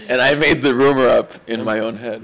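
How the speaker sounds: measured, word-by-word restatement; deliberate repeat. Real, not acted. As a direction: let each word land unhurried. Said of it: "I said".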